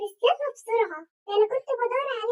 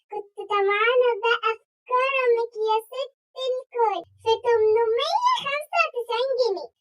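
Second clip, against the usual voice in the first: coaxing, drawn out; 3 dB louder, slower than usual. Acted. Coaxing ask for money.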